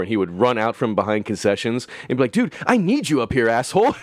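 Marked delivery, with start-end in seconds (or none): 2.3-3.9 higher, lightly hammed plea; mock call for help. Coworker calls for help from concessions, lightly hammed. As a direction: call him over half-joking.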